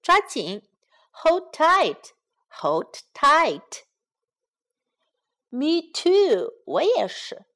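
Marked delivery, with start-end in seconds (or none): 1.1-3.8 slow teaching demo. Shown as a demonstration. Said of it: "所以必须要hold tight".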